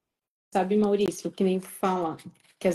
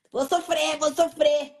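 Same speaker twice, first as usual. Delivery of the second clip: higher, whiny repeated lament; mock self-pity; 6 semitones higher than usual. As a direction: imitate someone wallowing in suffering. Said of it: "veste aquela roupa de ferro".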